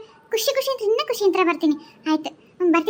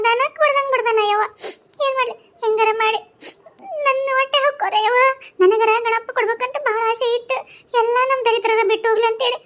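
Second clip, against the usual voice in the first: higher, weepy plea for help; tearful pleading; 4 semitones higher than usual. Acted. Wife begging the neighbour women for help, tearful. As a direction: beg through tears. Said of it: "ಅಳ್ಬೇಡ".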